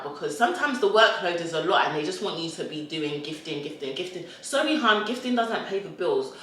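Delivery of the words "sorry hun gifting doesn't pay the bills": high-pitched mock apology; playful dismissive comeback; sassy retort. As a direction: brush them off with sass, pitched up. Sassy retort to imagined brands.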